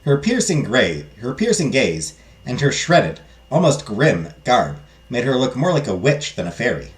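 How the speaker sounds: measured storybook narration; story narration. Acted. Narrator describes the strange fairy godmother, storytelling.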